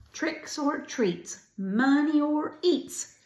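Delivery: high, slow trick-or-treat call; storybook yell. A narrator's reading. Kids at the first door, yelling in a story. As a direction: call it out high, stretching each word. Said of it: "they yell that at".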